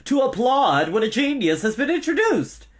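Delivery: high, loud, indignant scolding; stern. A narrator's reading. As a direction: demand applause loudly and pompously. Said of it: "he said sternly".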